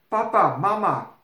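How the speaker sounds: loud, high excited call. Acted. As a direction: call across the room joyfully. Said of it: "she called as she ran".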